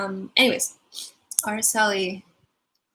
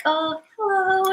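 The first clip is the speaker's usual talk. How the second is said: high, slow, gentle lilt; gentle greeting; 9 semitones higher, slower than usual. Retold or imitated. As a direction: imitate a gentle, unhurried hello. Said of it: "your voice is very, like, gentle".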